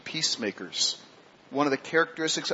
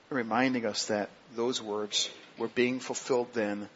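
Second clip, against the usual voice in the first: prayerful thanks to God, gentle and steady; closing prayer. Acted.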